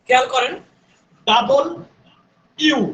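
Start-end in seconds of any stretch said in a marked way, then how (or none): 1.3-2.8 ডাবল and ইউ said apart; split letter name. Shown as a demonstration. Teacher showing how to split W. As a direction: break it into ডাবল, then ইউ. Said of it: "এটার উচ্চারণ হচ্ছে ডাবল".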